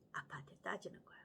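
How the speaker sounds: whispered story aside. Real, not acted. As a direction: lean in and breathe it.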